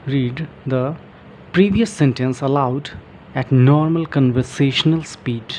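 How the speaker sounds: slow, careful reading from the book; reading aloud. Shown as a demonstration. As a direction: read each phrase out slowly for learners. Reading book text aloud slowly. (किताब से धीरे-धीरे पढ़ना)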